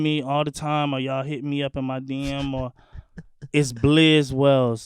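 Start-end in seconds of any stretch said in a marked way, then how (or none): 2.5-4.9 Blizz said with a short i, like blizzard; correct pronunciation. Shown as a demonstration. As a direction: stress Blizz, short i as in blizzard, then Wells. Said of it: "It's not Blize".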